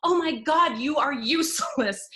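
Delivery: high, scornful critic's sneer; mock inner critic. Mocking her own inner critic in a high scornful voice. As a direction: sneer at yourself like a bully.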